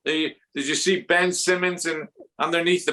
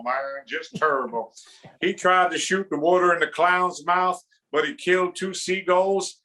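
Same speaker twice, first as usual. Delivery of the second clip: rip into him with drawled disbelief; Charles Barkley; 2 semitones higher than usual. Acted. TV pundit ripping Ben Simmons, exasperated mock rant. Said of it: "Charles Barkley is on national television. He's ripping".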